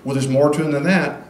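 loud, amazed reader reacting; hammed-up awe at hard workers; impressed reader. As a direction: gush like a reader won over. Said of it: "So by the end of the whole narrative".

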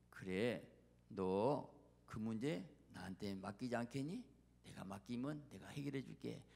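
low, softening invitation to trust; gentle divine coaxing. Acted. God asks his child to hand over the problem, gentle. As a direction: coax tenderly, as God to a child.

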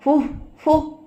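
two short blown puffs; little huffed breaths, voiced as words; puffs of blowing. A narrator's reading. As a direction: blow gently at an insect. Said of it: "అంటూ ఊదాడు".

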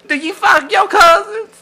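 high-pitched, yelled insulting question; shouted taunt. Pretend.

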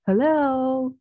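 a sharp wake-up "hello"; calling hello. Shown as a demonstration. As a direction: call "hello" to snap a distracted student back. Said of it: "khi mà em mất tập trung ấy, chị sẽ nói hello".

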